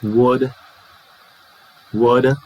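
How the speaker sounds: "what are" merged into "whadda"; short "whadda" with a schwa ending; reduced what-are. Shown as a demonstration. Teacher isolates what plus are, reduced form. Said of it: "R becomes uh".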